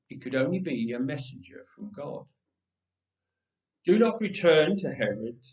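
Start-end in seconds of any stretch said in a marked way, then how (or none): 3.9-5.4 warning. Acted. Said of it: "the messenger warned them".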